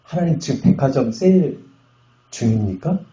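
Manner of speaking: acted exasperated complaint. Pastor retelling his tantrum at God, exasperated. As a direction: plead indignantly, replaying an old grievance. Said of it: "근데 막 화가 나가지고".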